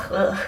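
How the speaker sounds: short groan of revulsion; grossed-out throaty ugh; disgusted ugh. Real, not acted. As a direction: let out a quick ugh at the memory. Disgusted noise recalling windy spit story.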